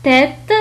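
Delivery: "تيت" with a hard t at both ends; ordinary T. Shown as a demonstration. Teacher showing the normal case, hard t in "تيت". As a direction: say "تيت", releasing the final t. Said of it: "تنطق التي بطريقة عادية".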